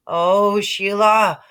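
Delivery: loud, fed-up groan of her name; exasperated shout. Acted. Peter shouting at Sheila on the rocks, loud exasperation. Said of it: "I shouted".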